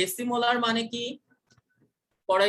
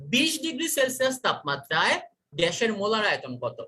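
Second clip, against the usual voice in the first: raised quizzing question to students; quiz question; 3 semitones higher than usual. Shown as a demonstration. Teacher quizzing the class on molar volume, raised pitch. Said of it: "আমাকে উত্তর দাও".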